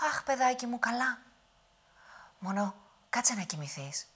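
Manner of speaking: put-on high old woman's voice; calm him down sweetly; soothing granny. Witch soothes the giant back to sleep, high.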